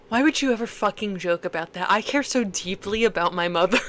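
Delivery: low, fast mock outrage; mock indignant kid. Co-host imagines the joked-with kid replying, mock indignant. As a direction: rattle off an over-earnest objection as the kid.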